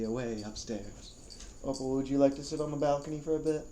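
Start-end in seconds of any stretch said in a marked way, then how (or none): 1.6-3.6 pet talk. Real, not acted. Talking to pet dog.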